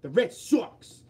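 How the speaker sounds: mock Bostonian accent, stretched out at the end. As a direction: play up the Boston accent, punchier on the repeat. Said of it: "they make me do the Boston accent a lot".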